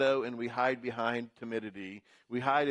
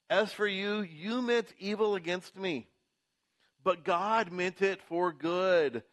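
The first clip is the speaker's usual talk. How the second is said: raised, impassioned Joseph declaring it, slowing at the end; a pitched-up preacher's voicing of Joseph; Joseph's proclamation; 7 semitones higher than usual. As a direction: proclaim it up high like Joseph to his brothers. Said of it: "he says to them".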